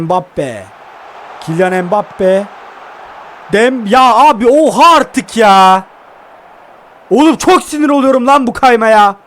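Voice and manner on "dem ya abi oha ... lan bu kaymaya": fed-up outburst. Real, not acted. Player raging at slide tackles.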